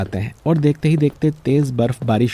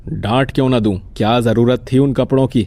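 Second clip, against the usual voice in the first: mildly stern husband's retort; scolding. Acted. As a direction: keep telling off the sick wife. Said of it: "आप क्यों डांट रहे हैं". (हल्की नाराज़ डांट)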